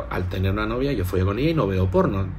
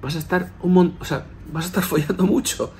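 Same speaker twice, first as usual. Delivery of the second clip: higher, giggling through the prediction; laughing astrologer; 7 semitones higher than usual. Retold or imitated. Astrologer insisting on the prediction, laughing. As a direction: imitate him chuckling as he insists. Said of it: "el tío se reía y dice".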